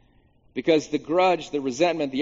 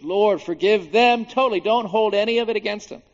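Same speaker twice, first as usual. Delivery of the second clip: loud, high cry for mercy; impassioned retold plea; 7 semitones higher, 5 dB louder than usual. Preacher paraphrasing Stephen amid violent rage, crying out. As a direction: plead at raised pitch and volume.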